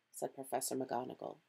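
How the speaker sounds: ordinary delivery, nothing marked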